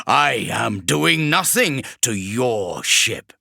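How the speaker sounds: slow, leaning on nothing; sly demon. Acted. Vashtor denies to Kravarek, slow and sly. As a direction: deny it with silky calm.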